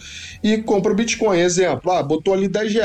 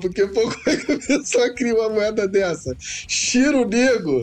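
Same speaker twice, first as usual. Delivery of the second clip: uncontrollable laughing fit; 3 semitones higher than usual. Host talking about a listener's message, apologizing: laughing fit. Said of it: "tá dando crise de riso aqui".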